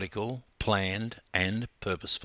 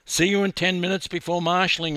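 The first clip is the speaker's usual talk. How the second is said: higher, louder and fast, calling across; quick friendly call across the pool deck; 8 semitones higher, 6 dB louder, faster than usual. Acted. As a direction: call it to her as she heads off. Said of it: "I called".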